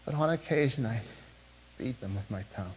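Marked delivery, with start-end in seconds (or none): 1.8-2.7 hushed admission. Shown as a demonstration. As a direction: beat dropped low and very soft. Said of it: "Why do I have to struggle".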